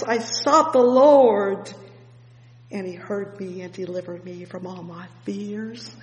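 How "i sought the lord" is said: loud proclaiming. Acted. Loud repetition of psalm line.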